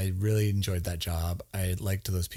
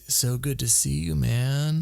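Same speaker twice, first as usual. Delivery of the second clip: higher, effusive greeting; effusive hugger; 4 semitones higher, slower than usual. Retold or imitated. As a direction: imitate an overly affectionate coworker mid-hug. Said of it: "participate in at least four elongated hugs".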